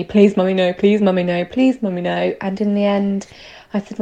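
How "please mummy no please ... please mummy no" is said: quick, repetitive child's plea, lightly acted; retold begging. Mum retelling her son begging at police station, lightly imitated pleading. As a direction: plead over and over, mildly imitated. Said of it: "begged me".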